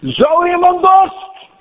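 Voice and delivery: high, drawn-out call to a crowd; roepend. Acted. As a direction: cry it out slowly, pitch soaring. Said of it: "stond Jezus en riep, zeggende".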